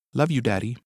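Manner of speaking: put-on small, sleepy child voice; lightly voiced little girl; toddler voice.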